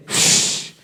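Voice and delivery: a firmer unvoiced shh like a blade drawn with force; forceful sword-drawing shh; stronger sword hiss. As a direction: draw the sword again, harder. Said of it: "con mucho más fuerza".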